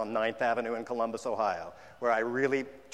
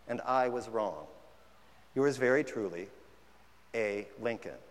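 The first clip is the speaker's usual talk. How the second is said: letter reading. Acted. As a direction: read it like a dignified historic letter. Reads Lincoln's letter aloud.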